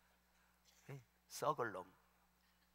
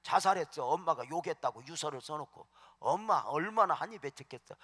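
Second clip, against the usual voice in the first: ordinary delivery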